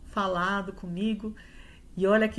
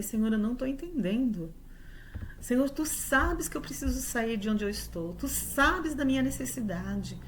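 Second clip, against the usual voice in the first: rising higher and higher, begging God for an answer; pleading prayer; 6 semitones higher than usual. Retold or imitated. Woman retelling her prayer to God, desperate pleading. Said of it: "Eu falei assim com Deus".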